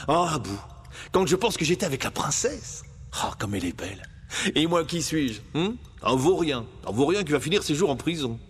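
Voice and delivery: lightly voiced wistful young hero; young Aladdin, wistful. Aladdin confides in his monkey in prison, wistful and self-mocking. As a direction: sigh over the girl, then run yourself down.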